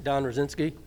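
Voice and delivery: muffled behind a face mask; talking through a mask. Real, not acted. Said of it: "Can you hear me with the mask on?".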